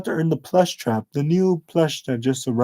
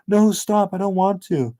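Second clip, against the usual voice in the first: higher, pleading yell through tears; crying yell; 5 semitones higher than usual. Acted. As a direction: beg the bullies to stop, voice pitched up. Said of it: "as he begins to yell".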